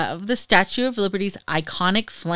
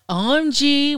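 French accent; 5 semitones higher than usual. Shown as a demonstration. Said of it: "with a French accent".

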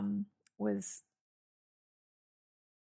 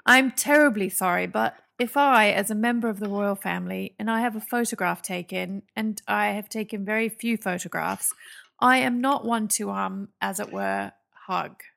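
loud stammering prince voice; a hammed-up Prince Andrew stammer; stammering posh royal; 7 dB louder than usual. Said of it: "he stammered".

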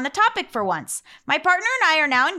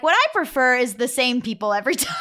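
laughing self-quote. Retold or imitated. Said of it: "and then I'm like".

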